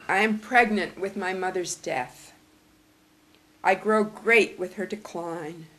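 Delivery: measured poetry recital; deliberate, weighted reading of each line; poem reading. Acted. Reads last poem aloud.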